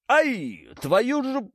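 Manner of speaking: high, loud yelp of pain; pained howl. A narrator's reading. Zakhar howls from inside the tossed car. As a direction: howl it as you get tossed. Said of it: "взвыл Захарчик".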